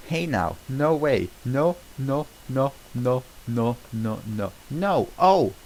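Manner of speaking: rising dread that bursts into a yelp; panicked no no no. Acted. Donkey panics as the chandelier falls on them, building to a shout.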